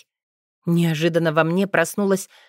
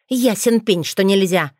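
snake-like hiss; 3 dB louder than usual. Acted. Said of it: "змеиное шипение Розали".

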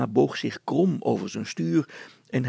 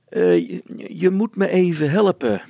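high, loud woman's voice; pleading wife; 6 semitones higher, 8 dB louder than usual. Acted. Wife wants help from husband, high and insistent. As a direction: ask for help in a raised voice.

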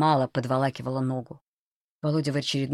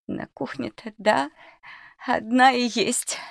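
put-on much higher, slow old crone voice; creaky old woman; 10 semitones higher than usual. Old cook answers under the knife, creaky and slow. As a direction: drag it out like a wary old cook. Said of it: "скрипуче протянула она".

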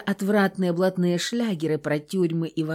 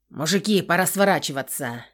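plain reading voice

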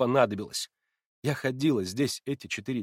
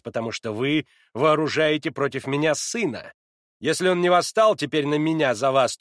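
ordinary delivery, nothing marked

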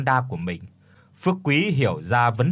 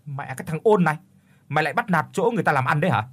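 grinding teeth; 3 semitones higher, much faster than usual. Acted. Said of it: "tiếng rít qua kẽ răng".

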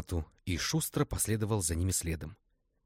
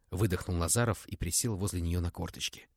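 usual speaking voice

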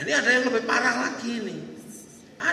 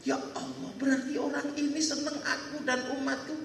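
softly acted, moved to tears; hushed start, touched and wondering; tearful; 2 semitones higher, 4 dB quieter than usual. Prophet realizing this stranger loves him, gently tearful.

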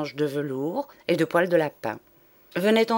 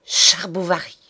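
called out; 6 dB louder than usual. Acted. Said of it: "lança à plein poumon, comme pour appeler".

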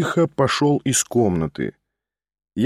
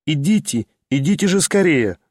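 calling loudly and merrily. Acted. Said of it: "звала она громко и весело".

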